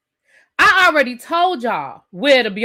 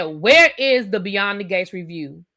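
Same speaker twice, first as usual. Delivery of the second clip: curt, blunt demand; rude; 3 semitones lower, slower than usual. Shown as a demonstration. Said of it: "doesn't that sound a little rude".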